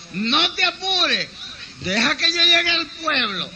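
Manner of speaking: put-on high, slow girlish voice; high sly Caperucita; Little Red Riding Hood voice.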